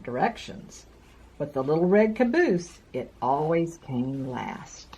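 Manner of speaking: gentle storybook read-aloud; reading to children. A narrator's reading. Reads a picture book to children.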